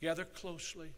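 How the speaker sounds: put-on whisper. Recalling an officer halting the group in a dark, narrow passage, retelling a whisper. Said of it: "in a whispered voice".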